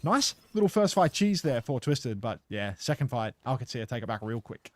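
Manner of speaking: lively play-by-play, rising with the action; esports caster. Acted. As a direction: call the match like a live caster. Casting the match live.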